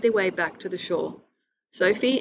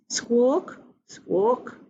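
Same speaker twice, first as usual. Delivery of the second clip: a bird's squawk, slightly higher; seagull squawk; 4 semitones higher than usual. Acted. Seagulls squawking at the children, bird cry. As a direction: squawk it like a gull.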